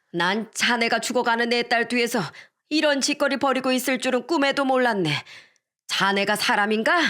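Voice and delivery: fierce scolding grandma. Acted. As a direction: rebuke the son-in-law like a furious grandmother. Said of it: "외할머니의 서슬퍼런 호통". (분노한 외할머니의 서슬퍼런 호통)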